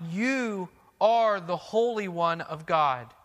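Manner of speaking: slow, drawn-out cry; demon crying out. Acted. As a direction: cry it out slowly, in awe. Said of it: "crying out".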